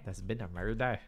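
mock Scottish accent, MURDER with a rolled r. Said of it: "Do a Scottish accent?".

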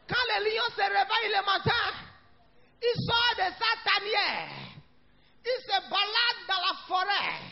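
rousing pulpit voice; animated preaching. Real, not acted. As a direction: preach it with drive, phrase by phrase. Preaches with raised voice.

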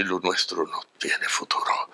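slow breathy mock galán line, whispered; mock soap heartthrob. Actor mocking the cliché galán to the producer, slow whispered heartthrob. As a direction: ham up a soap-opera leading man, slowly whispering. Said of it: "que habla así".

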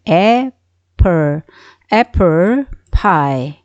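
apple with the first vowel spread wide; wide-mouthed vowel. Shown as a demonstration. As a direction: slowly stretch the mouth sideways on apple. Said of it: "입을 옆으로 쭉 벌리는". (입을 옆으로 벌린 'apple' 발음)

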